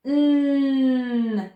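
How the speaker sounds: long humming "Mm" with the tongue on the roof of the mouth; held N sound. Shown as a demonstration. Teacher showing children the N sound, held "Mm" hum. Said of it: "when I'm making that N sound".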